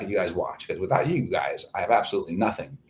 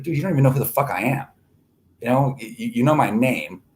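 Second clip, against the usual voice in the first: higher, fast and scoffing; rapid exasperated scoff; exasperated retort; 4 semitones higher than usual. Retold or imitated. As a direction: brush off the threat fast and impatiently. Retort to a Facebook threat.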